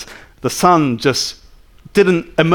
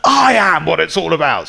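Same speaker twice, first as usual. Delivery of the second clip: arrogant claim. Retold or imitated. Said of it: "if most people spoke like that".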